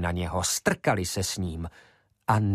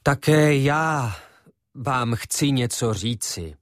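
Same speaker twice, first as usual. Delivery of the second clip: a speaker raising his voice to begin; 3 semitones higher, slower than usual. Acted. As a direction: claim the floor with weight. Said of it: "počal".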